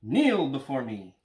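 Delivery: slow, booming villain decree; loud, slow evil overlord command; dark lord. Retold or imitated. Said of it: "That's what he says in Family Guy".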